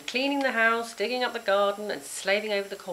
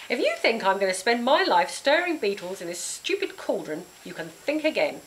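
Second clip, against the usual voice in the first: mildly louder angry shout; 3 semitones higher, 4 dB louder than usual. Acted. Girl shouting at Grizz, angry defiance. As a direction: push back hard. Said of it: "I shouted".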